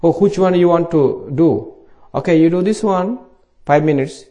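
ordinary talk

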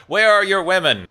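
hammed-up demanding question; mock demanding. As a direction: imitate an insistent interrogator, pitch jumping up. Acted mock demand of aliens.

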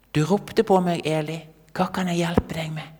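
a hint of an eager servant boy; helpful boy. Boy returns to the priest.

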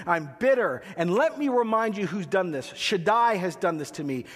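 grieving widow crying out against God before the village; bitter lament. Acted. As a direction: accuse heaven while the whole village listens. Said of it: "Naomi cries out".

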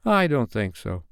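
put-on mildly mournful boy's answer; a touch of regret in a small voice. Slightly wishing things had been otherwise, mildly mournful. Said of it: "who said mournfully".

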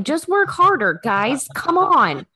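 a hint of a pushy boss; lightly voiced impatient boss; mock blunt boss. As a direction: bark it like a fed-up manager, lightly. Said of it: "Now you're speaking my language".

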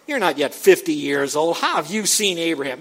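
incredulous, punched-out question; scoffing challenge. Acted. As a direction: scoff as an opponent would. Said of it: "So the Jews said to him".

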